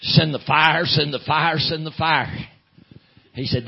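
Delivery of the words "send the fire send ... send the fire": mildly raised, insistent mock holler; imitated hollering. Churchgoer behind him begging God, imitated hollering. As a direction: chant it like a half-voiced holler. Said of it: "behind me was hollering".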